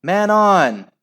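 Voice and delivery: high, loud warning shout; screamed warning. A narrator's reading. Al warning a teammate of an opponent, screaming. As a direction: shout a warning across the pitch. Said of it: "screamed Al".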